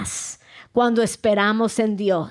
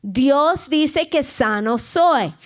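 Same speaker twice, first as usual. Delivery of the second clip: call and response. Shown as a demonstration. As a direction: lead the congregation, line for them to repeat. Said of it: "diga conmigo".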